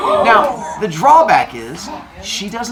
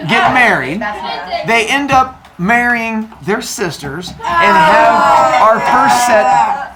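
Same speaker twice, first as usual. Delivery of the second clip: laughing; 3 semitones higher, 4 dB louder, slower than usual. Real, not acted. Teller cracks up mid-story.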